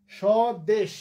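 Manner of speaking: স্বদেশ split as shaw-desh, silent ব; pronunciation demo. Shown as a demonstration. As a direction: stretch স্বদেশ and end on a bare sh. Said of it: "তালব্য স্বর নিচে হসটা দিতে হবে". (স্বদেশ ভেঙে, শেষে হসন্ত শ)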